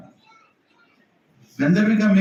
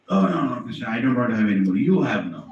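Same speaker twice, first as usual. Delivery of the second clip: tipsy Radha; 5 semitones lower, faster than usual. Acted.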